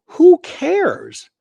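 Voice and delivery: high, loud dismissive outburst; exasperated who cares. Real, not acted. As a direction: toss it off, fed up with the critics. Dismissing critics of the marshal.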